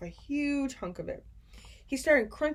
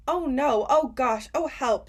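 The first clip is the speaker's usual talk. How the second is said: higher and louder panicked gasps; disgusted; 5 semitones higher, 6 dB louder than usual. A narrator's reading. Sophie spitting out the Snozzcumber, loud and disgusted. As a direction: blurt it out spitting. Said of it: "she spat it out".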